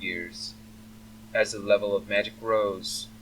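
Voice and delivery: measured, savoring delivery; slow, relishing speaker. Acted. Dragon's representative lectures on magic cycles, slowly relishing words. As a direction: take your time, weighing each word. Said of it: "speaks slowly with a deep, melodious German accent".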